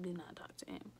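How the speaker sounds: breathy aside, voice dropped to a whisper; whispered warning about him half asleep. Real, not acted. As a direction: hiss the warning like a secret. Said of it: "unvoiced whisper".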